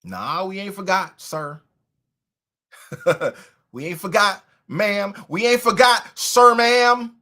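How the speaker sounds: from easy to a loud taunt; building taunt. Real, not acted. Taunting Joe Biden, rising into a loud call. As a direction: start casual, end loud.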